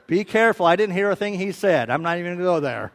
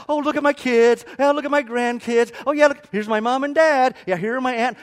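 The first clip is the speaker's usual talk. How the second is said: gushing waitress; 5 semitones higher, 5 dB louder than usual. Retold or imitated. Mimics chatty waitress showing photos.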